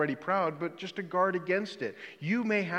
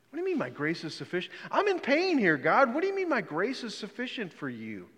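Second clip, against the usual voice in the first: fast, rising exasperated complaint to God, jumping high on the pain; mock the baffled modern reader, fast and indignant; puzzled modern reader; 6 semitones higher than usual. Preacher voicing modern readers protesting to God, exasperated and fast. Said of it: "we in the twenty-first century read that and go".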